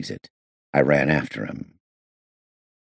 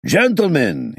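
loud, much higher bellow; 13 semitones higher, 5 dB louder, slower than usual. A narrator's reading. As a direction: bellow to stop the fight. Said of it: "he bellowed loudly".

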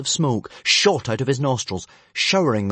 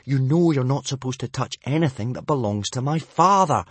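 mild, higher telling-off; scolding; 4 semitones higher, 4 dB louder than usual. Acted. Boy telling off his pet dragon, scolding. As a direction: scold with exasperation. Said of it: "he scolded his pet".

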